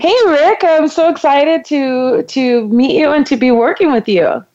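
high opening, easing down; excited and eager. Shown as a demonstration. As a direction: act thrilled to meet a new colleague. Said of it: "you're very excited and you're eager".

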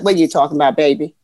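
low, gentle imitated mother; mother's voice. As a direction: drop low like a calm mother. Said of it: "she was like".

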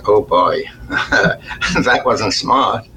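rueful laugh. Retold or imitated. Realizing his mistake, laughing.

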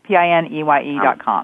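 reading back letter by letter; spelling it out. Shown as a demonstration. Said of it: "Would you spell it?".

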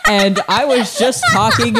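talking through giggles, high; laughing. Real, not acted. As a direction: speak while cracking up. Laughing after burp.

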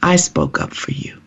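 quiet, slightly softened retelling of a divine reassurance; the Lord's words. Retold or imitated. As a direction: say it gently, after a long pause. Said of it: "I heard the Lord, Norma, say to me".

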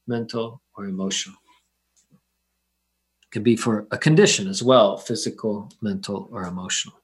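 calm them down, unhurried and gentle. Acted. Leads a guided meditation.

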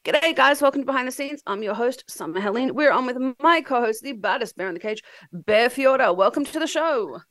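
froggy voice from a stuffed nose; blocked nose after nose surgery. Real, not acted. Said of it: "I sound like a frog".

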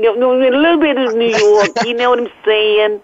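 playful attempt at a New York accent; a little bit of New York accent. Shown as a demonstration. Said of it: "let me hear your best New York accent".

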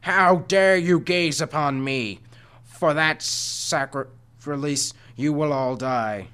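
a monster wailing in outrage. A narrator's reading. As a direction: wail the curse from many mouths. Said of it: "four mouths wailing at the same time".

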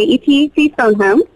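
a polite British request, voice lifted; British accent. Shown as a demonstration. Actress as alien on the telly, British accent. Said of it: "You can also do British".

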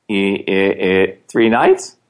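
stammering, unsure of the answer; mock stammer. Telling friends about his class, stammering unsure. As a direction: stutter out the answer like you don't know.

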